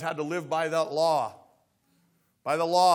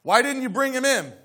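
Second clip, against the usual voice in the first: loud, higher angry demand; 7 semitones higher, 7 dB louder than usual. Acted. Priests demanding of the temple guards, angry and loud. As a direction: bark the question at the guards. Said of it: "the leading priests and Pharisees demanded".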